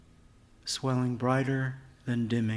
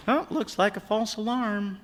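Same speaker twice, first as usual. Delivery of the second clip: light shrug; 12 semitones higher than usual. Acted. Father shrugs off the blackout.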